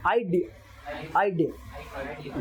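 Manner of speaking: आइडिया drawn out slowly, डी stressed; slow it down, hit डी; slow stressed demo. Shown as a demonstration. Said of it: "डी पे ज्यादा stress है".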